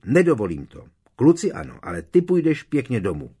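loud, high scolding; furious mother's shout; angry mother. Acted. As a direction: forbid it outright. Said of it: "křičela paní Weasleyová".

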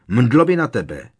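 loud thundering spell cry; thundered. A narrator's reading. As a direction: blast the spell out. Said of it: "zahřímal Harry". (hromový výkřik kouzla)

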